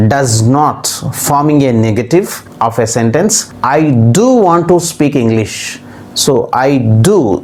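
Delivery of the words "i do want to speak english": emphatic "do", falling in pitch; stress on "do". Shown as a demonstration. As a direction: put the emphasis on "do". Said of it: "stressing, emphasizing, not saying simply".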